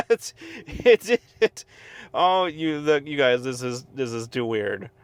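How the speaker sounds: stunned, halting, slow; lost for words; dumbfounded. Real, not acted. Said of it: "I'm lost for words".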